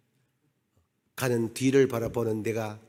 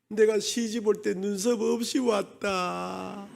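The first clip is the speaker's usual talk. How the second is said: tearful confession; 6 semitones higher, slower than usual. Retold or imitated.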